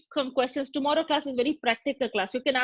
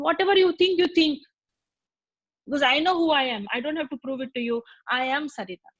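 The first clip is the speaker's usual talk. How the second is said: firm self-assured; 2 semitones higher than usual. Retold or imitated. Sarita answers the teaser, firm and self-assured. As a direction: shrug it off with calm confidence. Woman firmly asserts her identity.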